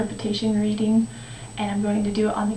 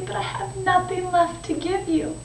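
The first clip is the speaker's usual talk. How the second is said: higher, plaintive admission; sorrowful; 6 semitones higher than usual. Acted. The tree has nothing left to give, sorrowful. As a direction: confess it gently in a raised, regretful voice.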